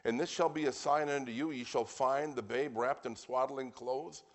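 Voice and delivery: deliberate, emphatic Bible reading. Real, not acted. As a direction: proclaim the verse unhurriedly, stretching key words. Resumes reading scripture.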